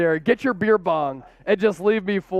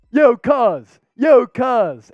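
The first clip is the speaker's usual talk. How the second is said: punchy Philly-style greeting, falling away; Anthony Gargano; 2 semitones higher, 5 dB louder, much slower than usual. Pretend. Host imitates a local personality, mock Philly greeting. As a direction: hail them in a put-on local voice. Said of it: "Anthony Gargano on y'all".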